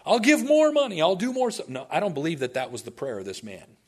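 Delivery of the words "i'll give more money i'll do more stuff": high, loud, hammed-up begging; mock desperate plea. Preacher mimicking a bargaining prayer to the Lord, mock desperate. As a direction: wail out frantic bargains in an exaggerated high voice.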